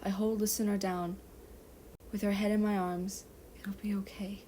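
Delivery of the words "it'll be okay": soft whispered reassurance. Acted. Levi whispering to Listener, soft whisper. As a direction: breathe it into her ear. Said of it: "I whisper in her ear".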